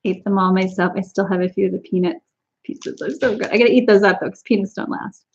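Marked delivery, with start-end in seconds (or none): 4.2-5.2 unvoiced confiding whisper. Real, not acted. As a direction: whisper it as a secret aside. Aside to viewers.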